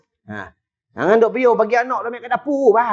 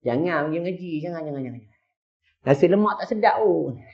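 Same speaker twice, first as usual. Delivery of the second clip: soft, hushed tempting whisper; the devil whispering to skip Quran class, hushed; 2 semitones lower, 7 dB quieter than usual. Retold or imitated. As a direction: breathe it like the devil in your ear. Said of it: "dia bisik je".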